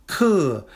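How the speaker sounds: Ke falling sharply, fourth tone. Shown as a demonstration. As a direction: drop Ke straight down. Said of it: "that is a fourth tone character".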